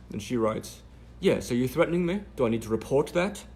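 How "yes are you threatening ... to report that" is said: high, loud mock British reporter; a hammed-up British accent, pitched high. Reporter's DM read in a mock British accent. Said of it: "I'm doing her British accent".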